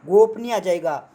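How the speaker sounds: गोपनीय said slowly, each syllable clear; slow careful pronunciation. Shown as a demonstration. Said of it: "यहाँ पे क्या आ जाएगा?".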